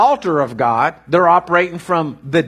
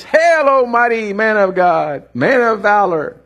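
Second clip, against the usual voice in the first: angel's proclamation; 3 semitones higher, slower than usual. Acted. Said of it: "And the angel says".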